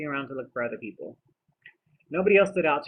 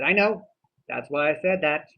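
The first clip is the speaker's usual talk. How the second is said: excited burst; 3 semitones higher, 8 dB louder than usual. Real, not acted. Eager reply to friend.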